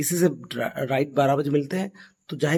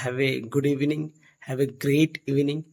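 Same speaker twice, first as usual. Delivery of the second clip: slow model greetings; much slower than usual. Shown as a demonstration. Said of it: "या कह सकते हैं".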